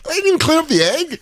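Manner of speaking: squeaky high disbelieving question; mock shock at the messy ring; incredulous fan. Fan watching an old match, in squeaky disbelief.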